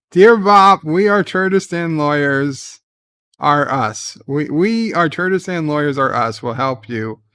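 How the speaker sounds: loud letter reading. Acted. Reading a listener letter aloud.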